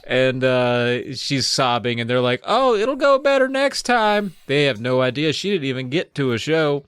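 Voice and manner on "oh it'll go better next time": high, slow, cooing reassurance; mock consoling. Family to sobbing Amy, clueless cheery consoling. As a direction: coo it with hammed-up sympathy.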